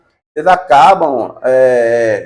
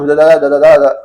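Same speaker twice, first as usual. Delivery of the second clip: mock monotone robot reading "da, da, da"; mimicking a robotic rote recital; 4 dB louder than usual. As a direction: imitate a student reciting like a machine. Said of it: "falando robótica".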